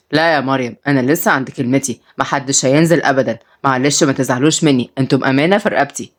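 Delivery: low-pitched, measured refusal; firm grandfather. Acted. Grandfather forbidding the grandchildren to go, firm and low.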